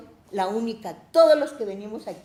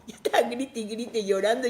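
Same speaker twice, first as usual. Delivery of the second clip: ordinary talk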